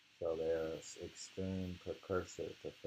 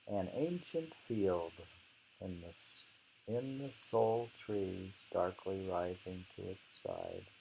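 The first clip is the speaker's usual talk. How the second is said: poem recitation. Acted. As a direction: savour each image as you recite. Reads the poem aloud.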